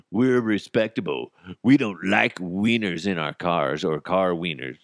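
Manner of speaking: poo-pooing as a stuffy institution; lightly put-on voice turning up its nose; mock dismissive. NASA turns down the Wienermobile, mock dismissive. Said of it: "poo-pooed it".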